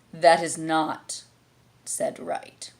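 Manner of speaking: slow, lazy caterpillar verdict. A narrator's reading. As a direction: drag the words out disapprovingly. Caterpillar criticises.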